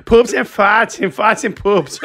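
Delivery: slow, loud cartoon dad voice, laughing; Peter Griffin voice. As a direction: drawl it like a goofy cartoon dad. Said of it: "my Peter Griffin".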